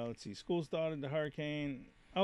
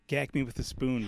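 put-on valley girl; 3 semitones lower, 5 dB quieter than usual. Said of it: "Very valley".

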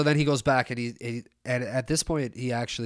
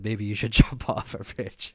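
snarky retort. Retold or imitated. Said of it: "I went a little too hard".

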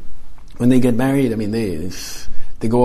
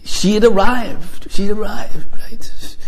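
rising wonder; 8 semitones higher, slower than usual. Real, not acted. Builds wonder at Mary's arrival.

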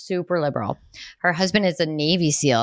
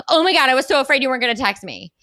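put-on excited little girl; 6 semitones higher, 3 dB louder, faster than usual. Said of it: "Reynolds was like".

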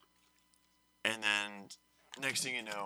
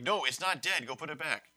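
a bit higher, louder insist; exasperated teacher; 5 semitones higher, 4 dB louder than usual. Retold or imitated. Teacher repeating herself to students, mildly exasperated. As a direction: put your foot down, mildly. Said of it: "she finally went around like".

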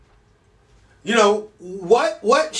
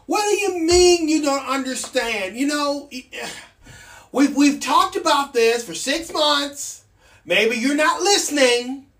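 put-on higher, talking down as if explaining to a child; mock patronising colleague; 5 semitones higher than usual. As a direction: imitate the smug gaslighter. Imitating gaslighting colleagues.

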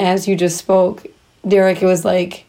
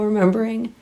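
shaky crying voice. Real, not acted. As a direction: voice shaking with held-back tears. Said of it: "I'm kinda crying right now".

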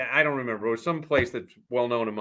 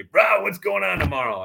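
imitating Weeze; 5 semitones higher, 4 dB louder than usual. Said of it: "Weeze says to me".

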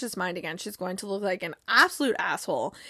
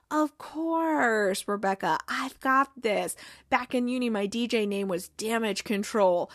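Higgins, calm and soothing. Retold or imitated. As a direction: lightly imitate a calm, soothing man. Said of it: "in his very calm, soothing voice".

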